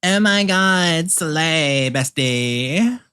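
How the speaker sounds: loud, high, slow gushing; ironic zoomer. Pretend. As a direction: gush like an ironic bestie. Over-the-top praise to self.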